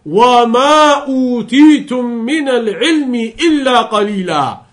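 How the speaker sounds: Quran recitation. Real, not acted. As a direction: recite the verse, letting the pitch fall at the close. Quotes a verse of the Quran.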